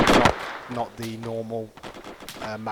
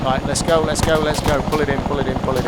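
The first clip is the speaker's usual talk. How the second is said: urgent shout; 5 dB louder than usual. Real, not acted. Urging the squad to move out.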